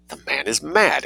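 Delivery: high, hammed-up tragic cry; lightly played despairing wail; tragic exclamation. A narrator's reading. Adela despairs of the artist, a hammed-up tragic cry. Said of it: "exclaimed Adela tragically".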